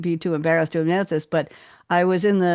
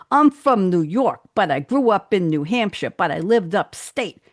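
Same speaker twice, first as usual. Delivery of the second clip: put-on New York accent. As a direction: lightly imitate a would-be New Yorker. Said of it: "I don't talk like that".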